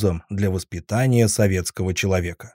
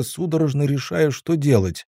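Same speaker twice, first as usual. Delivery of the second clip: usual speaking voice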